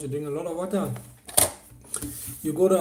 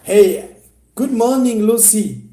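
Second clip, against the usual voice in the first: mock sweet greeting; 6 semitones higher, 11 dB louder, slower than usual. Mocking a time-wasting greeting.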